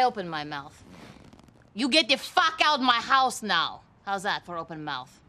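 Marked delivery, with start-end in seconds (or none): 1.7-5.2 angry shout. Acted. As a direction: throw them out of your house, yelling. Suspect throws cops out.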